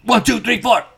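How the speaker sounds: high-pitched band count-in; Rob's song count-off. Retold or imitated. Fan quoting the comic's song opener, high-pitched count-off. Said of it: "That's how Rob starts one of his songs".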